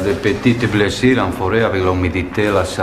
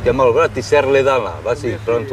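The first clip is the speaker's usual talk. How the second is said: barking orders at a trainee; drill sergeant; 4 semitones higher than usual. Real, not acted. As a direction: push him hard, no excuses. Instructor pushing injured trainee.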